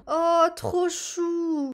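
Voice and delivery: drawn-out, melting aww; slow, doting coo; gushing aww. Real, not acted. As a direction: swoon over something adorable. Melts over the cute baby.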